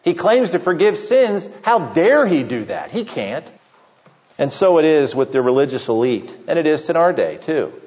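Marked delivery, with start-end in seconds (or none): 0.0-3.5 scoffing Pharisee. Retold or imitated. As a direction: dismiss him like a sneering critic. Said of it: "the Pharisees would always choose B".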